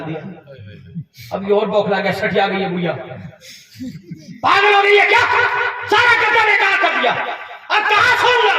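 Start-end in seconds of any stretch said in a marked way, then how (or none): 4.4-8.5 son's indignant shout, higher and louder; hammed-up outraged son; mock angry yell. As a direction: play the spoiled son snapping at his mother. Son yells at his mother.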